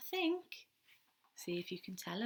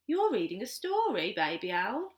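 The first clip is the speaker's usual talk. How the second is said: louder, eager little chick; eager chick cry; 6 dB louder than usual. Acted. Tiny Chick asks Baby Owl to join, excited. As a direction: call out keen to join in. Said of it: "cried Tiny Chick".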